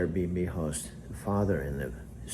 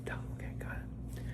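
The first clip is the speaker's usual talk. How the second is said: mock Alexa; 10 dB quieter than usual. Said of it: "Alexa goes".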